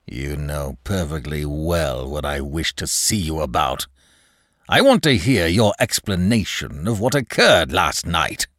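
lightly voiced displeased boss; stern manager. Manager calls clerk to account for last night, stern. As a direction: demand an explanation with restrained annoyance.

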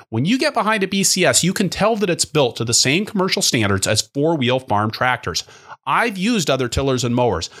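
smooth sponsor read, upbeat and even; friendly podcast ad voice. Acted. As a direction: read the sponsor spot like a radio host. Host reads sponsor ad.

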